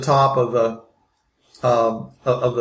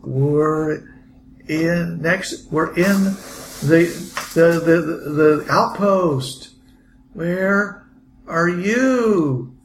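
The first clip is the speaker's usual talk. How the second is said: survivor voice; 4 semitones higher, much slower than usual. Acted.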